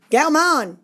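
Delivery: high, loud call; shouted name; shouting name. Acted. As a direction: call out in relief. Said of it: "he shouted".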